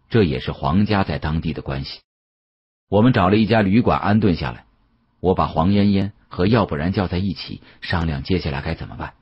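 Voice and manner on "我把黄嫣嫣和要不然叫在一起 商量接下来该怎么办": plain reading voice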